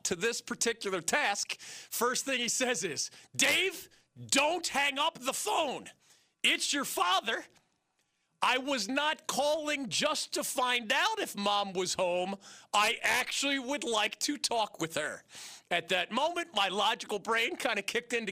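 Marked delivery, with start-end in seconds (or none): 3.3-15.2 higher, slow and deliberate warning; firm dad. Retold or imitated. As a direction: spell it out so the kid won't hang up again. Dad stops child hanging up.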